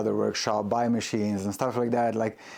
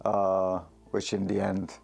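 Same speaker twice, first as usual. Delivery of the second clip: steady yourself after crying; emotional, recovering; 2 semitones lower than usual. Real, not acted. Maker apologising to backers, still moved. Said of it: "I got a bit emotional".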